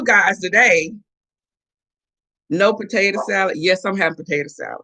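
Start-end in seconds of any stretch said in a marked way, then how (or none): none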